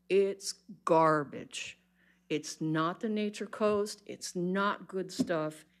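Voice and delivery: slow, heavy, fed-up anger; angry, deliberate public comment; getting mad. Real, not acted. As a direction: spell out each word, barely holding the anger. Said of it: "I'm sorry I'm getting mad".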